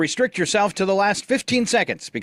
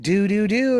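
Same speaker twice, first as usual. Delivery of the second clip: disconnected phone tones; 6 semitones higher than usual. Retold or imitated. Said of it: "it would go".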